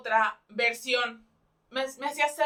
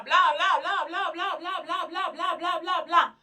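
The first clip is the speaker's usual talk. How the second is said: high, sing-song blah blah chatter; mocking blah blah; 5 semitones higher, 4 dB louder, slower than usual. Reviewer mimicking the audiobook narrator rambling, mocking sing-song. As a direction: rattle off the blahs mockingly, rising to a loud final one.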